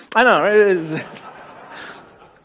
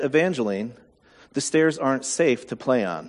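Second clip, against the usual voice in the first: gentle mother; 4 semitones lower, 5 dB quieter than usual. Retold or imitated. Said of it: "help her understand".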